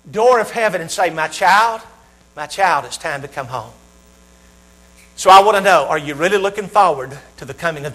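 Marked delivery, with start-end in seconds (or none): 1.1-3.7 softening, falling to a hushed low close; tender fatherly call. Acted. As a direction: gently call a child home. God calling his child home.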